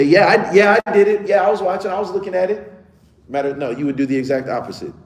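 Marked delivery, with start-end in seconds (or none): 0.0-2.7 mock confession.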